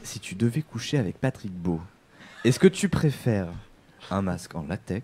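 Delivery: ASMR voice. Acted. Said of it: "En, en A S M R".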